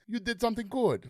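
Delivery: a failed Spanish accent that drifts toward Russian, lightly voiced; mock Spanish accent that comes out sounding Russian; bad Inigo Montoya. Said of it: "Wow, that was a terrible accent".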